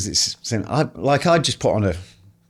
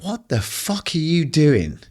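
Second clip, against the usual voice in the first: self-scolding; 6 semitones higher, slower than usual. Retold or imitated. Scolding himself.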